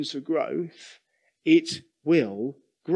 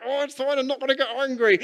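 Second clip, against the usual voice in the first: forced calm; 10 semitones higher, faster than usual. Retold or imitated. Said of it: "you're kind of gritting your teeth".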